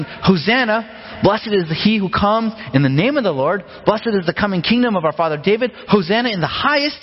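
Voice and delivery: a touch of festive shouting; mild crowd acclaim. Acted. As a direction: read it like a crowd hailing a king.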